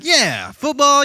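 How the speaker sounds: lightly voiced bemused friend; slow puzzled foreign friend. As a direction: stretch it out like a confused local. Acted foreign friend's slow reply.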